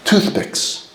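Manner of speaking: breathy stage whisper; conspiratorial whisper of the punchline; whispered reveal. Acted. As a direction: let the answer slip out in a hush.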